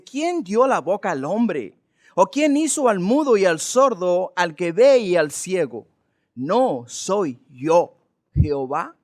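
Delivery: God's voice building from firm to loud; voice of God rising. Acted. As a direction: slowly build the Lord's questions in force. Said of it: "el tono de la voz de Jehová va aumentando".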